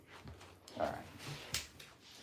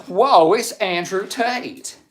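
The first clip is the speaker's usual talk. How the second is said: loud, drawn-out mock astonishment; exaggerated amazement; 9 semitones higher, 9 dB louder, slower than usual. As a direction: stretch it out high and loud, hugely amazed. Reading chat with exaggerated amazement.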